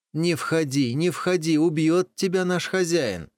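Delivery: high, urgent warning; frightening warning. Acted. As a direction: scare the wolf away. Animals warn wolf away.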